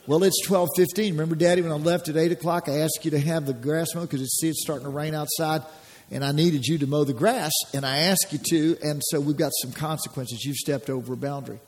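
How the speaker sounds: a father calmly telling his son about the missed mowing; calm parent. Retold or imitated. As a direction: lay out the consequences without heat. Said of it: "See, there's no emotion".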